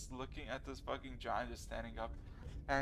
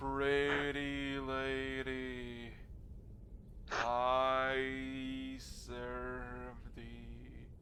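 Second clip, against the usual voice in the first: very slow, drawn-out, mumbling, muttering giant voice. Narrating a tabletop game, voicing a giant addressing a character: muttering giant voice. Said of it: "the giant just kind of mutters".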